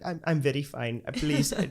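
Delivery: halting reassurance in a mock Indian accent; put-on Indian accent. Reassuring the girl who defended him, put-on Indian accent. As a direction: stay in the faked Indian accent, politely. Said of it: "without the accent".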